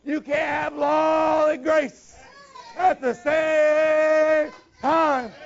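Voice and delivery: slow, loud, emphatic quote; quoted proclamation. Retold or imitated. Preacher quoting the prophet to the church, slow and loud. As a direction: declare it slowly like scripture. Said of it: "where he said".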